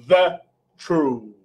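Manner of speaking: posh English. Shown as a demonstration. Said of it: "mais chique".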